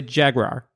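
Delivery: "jaguar" said as jag-rar; trick pronunciation. Shown as a demonstration. Friend coaching him into a silly sound, jag-rar pronunciation. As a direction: end "jaguar" on a roar word, rar. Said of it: "Say roar".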